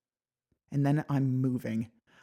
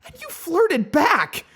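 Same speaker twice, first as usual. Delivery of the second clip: much higher, loud, slow accusing shout; furious accusing; 11 dB louder, slower than usual. Acted. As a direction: hurl the accusation at him. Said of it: "fury lacing through my fear".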